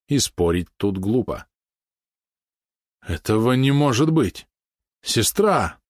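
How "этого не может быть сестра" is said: a higher shocked cry; shocked exclamation. Acted. Polot learns the truth and cries out in shock. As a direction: disbelief breaking out of him. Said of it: "воскликнул Полот".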